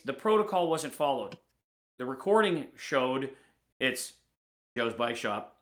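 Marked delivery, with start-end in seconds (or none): 3.8-5.6 mumbled, bored shop name only; flat bare greeting. Retold or imitated. Imitating an employee answering a customer call, bored and curt. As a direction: answer the phone like you couldn't care less. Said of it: "Literally, that was the answer. It wasn't even, "Hello".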